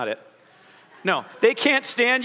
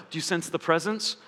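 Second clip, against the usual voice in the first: hushed, lower mock-reverent question; lower, softer pious hush; mock hushed awe; 6 semitones lower, 5 dB quieter than usual. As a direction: breathe it like a spiritual secret. Mock awed churchy question.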